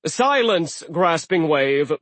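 loud, slow commanding god; commanding sea giant. Acted. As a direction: order her to silence. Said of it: "Aegir commanded".

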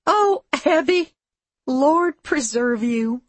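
high, drawn-out fond exclamation; amused, slowing on the blessing; gently amused. A narrator's reading. Missus Whitshank reacts to Abby, high and gently amused. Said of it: "with a gentle laugh".

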